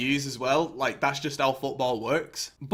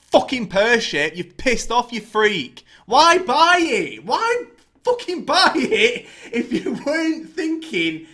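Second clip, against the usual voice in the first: shouting in disbelief, pitch climbing; furious rant; 7 semitones higher, 7 dB louder, slower than usual. Real, not acted. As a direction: yell it at him, outraged and mocking. Ranting at the new owner.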